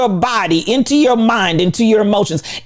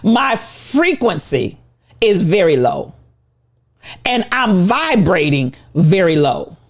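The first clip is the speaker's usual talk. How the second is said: mock confession; 5 semitones lower than usual. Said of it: "admit and acknowledge to yourselves".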